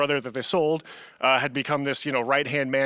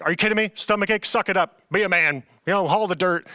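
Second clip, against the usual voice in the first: mildly mocked tough stepdad; dismissive scolding; 3 semitones higher than usual. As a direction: imitate a stepdad telling a kid off. Stepdad scolding him, retold.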